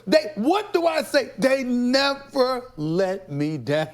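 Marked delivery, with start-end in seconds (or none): 1.4-3.9 slow, giggling through the words; laughing. Real, not acted. Guest laughing at the Cowboys, slow and giggly. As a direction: laugh while you gloat.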